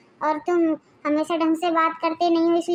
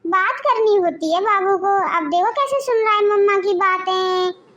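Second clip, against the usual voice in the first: put-on soothing baby talk; 2 semitones higher than usual. Father cooing at the baby. (माँ का ऊँची सुरीली आवाज़ में बच्चे को चुप कराना)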